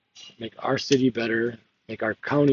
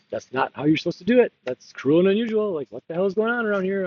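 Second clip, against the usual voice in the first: raised, indignant protest at the guards; half-yelled outrage, pitched up; retold yelling; 7 semitones higher than usual. Standing up to jail guards, mock yelling protest. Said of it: "I'm just started yelling and yelling".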